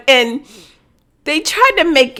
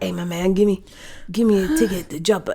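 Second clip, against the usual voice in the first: hushed, lower sneaky request; mock whispering; 3 semitones lower, 8 dB quieter than usual. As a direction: ask furtively, as if hiding under a cloak. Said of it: "and whispering".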